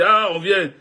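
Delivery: a hint of protective mamans ready to fight; mothers' voice. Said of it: "Les mamans ont appelé".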